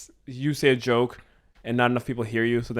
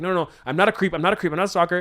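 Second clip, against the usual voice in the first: higher, hurried no-no-no; flustered denial; 4 semitones higher, faster than usual. Retold or imitated. Man panicking to his freaked-out date, higher and hurried. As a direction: backpedal fast so he doesn't sound creepy. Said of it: "he's like".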